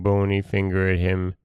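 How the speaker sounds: plain reading voice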